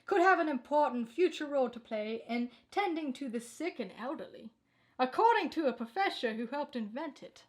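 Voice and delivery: steady anchor delivery reading the bulletin; crisp, measured newscaster voice; news read. Acted. News read of robot story.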